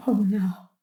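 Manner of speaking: unvoiced breathless oh no; horrified whisper. Gran reading her daughter's hospital letter, whispered dismay. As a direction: let the dread slip out in a whisper.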